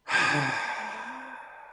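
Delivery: long heavy sigh; dramatic sigh. Real, not acted. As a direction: let out a big weary sigh. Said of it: "That's all I've got is just a big sigh".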